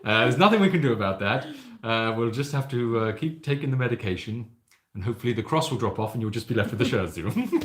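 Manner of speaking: grave doctor breaking bad news, lightly voiced; understated mock bedside manner. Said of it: "It's like, "Well, I'm terribly sorry".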